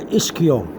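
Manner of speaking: ischio said with a hard k sound; hard-k pronunciation. Shown as a demonstration. Teacher showing learners two ways to pronounce it, hard-k version. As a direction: say ischio as ISS-kee-oh. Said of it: "there's two ways to pronounce this".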